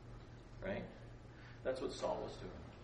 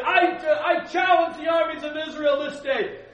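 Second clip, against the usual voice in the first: booming Goliath; 14 semitones higher, 15 dB louder than usual. Acted. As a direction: bellow the challenge like a giant warrior. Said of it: "it's better if I do it this way".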